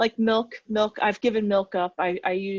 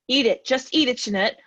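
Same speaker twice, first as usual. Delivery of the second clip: louder, pushy self-urging; mock pep talk to herself; urging inner voice; 4 semitones higher, 6 dB louder than usual. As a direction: egg yourself on to eat it.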